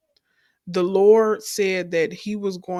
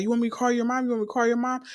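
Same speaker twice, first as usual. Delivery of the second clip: higher-pitched, repeated question; puzzled husband; 5 semitones higher, much faster than usual. Retold or imitated. Husband trying to understand his wife, imitated puzzled question. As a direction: imitate a confused husband checking.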